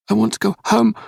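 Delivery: put-on a frightened boy begging to go home. A narrator's reading. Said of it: "he begged".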